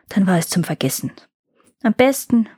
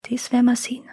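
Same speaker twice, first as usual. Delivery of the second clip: whispered murmur under the breath; murmured quietly; 3 semitones higher, faster than usual. A narrator's reading. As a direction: mutter it to yourself, whispering. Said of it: "murmelte der Händler leise".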